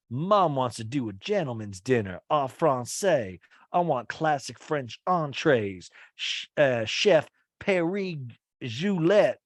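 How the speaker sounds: loose put-on voice, drawn out near the end; a half-formed silly voice for Austin, slowing on the French words; odd made-up voice. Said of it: "I don't know what fucking voice I'm doing right now".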